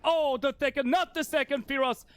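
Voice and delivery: sudden high caster shout; excited shout. Real, not acted. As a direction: jump up on the kill.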